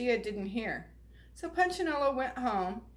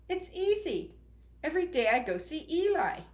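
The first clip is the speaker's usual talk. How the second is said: put-on a lightly raised girlish voice; Lucia, light and breezy; 5 semitones higher than usual. Lucia tells Punchinello her secret, breezy. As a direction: skip through it cheerfully.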